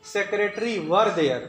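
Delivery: slowly, words spaced apart; slow dictation. Shown as a demonstration. Teacher showing exam question, slow dictation. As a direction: read the exam sentence slowly. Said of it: "ध्यान से देख लो".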